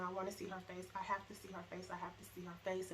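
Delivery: a hint of a desperate mother; repeated plea. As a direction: plead quietly, over and over. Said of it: "I just kept saying".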